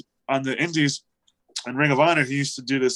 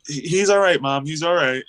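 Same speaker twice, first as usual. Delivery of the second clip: reassuring; 3 semitones higher, 3 dB louder than usual. Retold or imitated. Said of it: "Colt was like".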